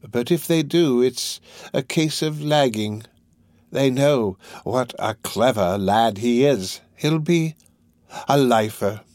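lightly voiced old gang master, measured and deliberate; Fagin, resigned. Fagin predicting his pupil's sentence, measured and resigned.

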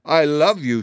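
high, adoring declaration; enchanted, lovestruck delight; ecstatic. A narrator's reading. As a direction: gush it with rapture. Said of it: "clasping her hands in ecstasy".

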